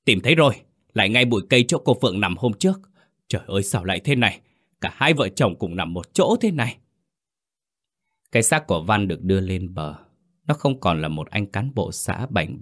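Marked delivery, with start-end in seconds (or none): 0.0-6.8 alarmed shout. Acted. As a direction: blurt out the find in horror, fast. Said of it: "một tiếng kêu thất thanh vang lên".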